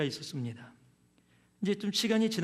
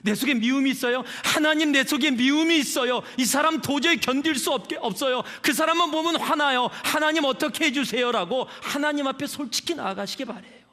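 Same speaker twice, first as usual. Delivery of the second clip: impassioned preaching; 6 semitones higher, 6 dB louder than usual. Acted. Preaching at full force.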